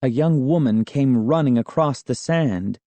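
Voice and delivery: plain reading voice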